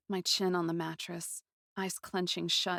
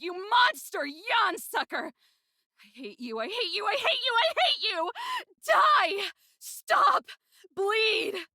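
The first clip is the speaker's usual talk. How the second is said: much higher and louder, building to shrieks; furious screaming; 14 semitones higher, 6 dB louder than usual. Acted. Girl raging alone at the wizard who hurt her friend, screaming. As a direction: scream your hatred at him until it breaks.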